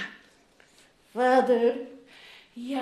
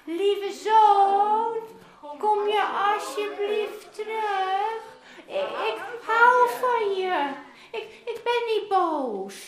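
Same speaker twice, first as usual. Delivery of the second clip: calling out; 4 semitones higher, slower than usual. Pretend. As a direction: call it out slowly so he hears you far away. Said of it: "als we roepen".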